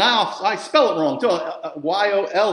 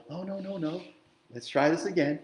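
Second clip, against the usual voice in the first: gentle father; 4 dB quieter than usual. Retold or imitated. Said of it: "As a father does with his children".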